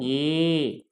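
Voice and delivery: "ஏ" held long; long vowel. Shown as a demonstration. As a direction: stretch "ஏ" out as a model. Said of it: "இப்படி உச்சரிக்கணும்". ("ஏ" நெடிலாக, நீட்டி)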